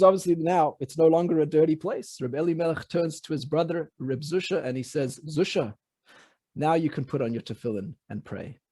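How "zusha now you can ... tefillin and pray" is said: lower, softer tender telling; gentle. Acted. Elimelech softly telling Zusha he can now pray. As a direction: quietly reassure his brother.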